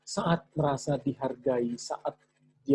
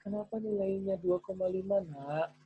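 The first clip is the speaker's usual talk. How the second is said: put-on higher, soft and sweet, as if to a little child; very gentle tone; 6 semitones higher, 7 dB quieter than usual. Shown as a demonstration. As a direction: ask it as tenderly as you can. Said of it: "Walaupun nadanya halus banget".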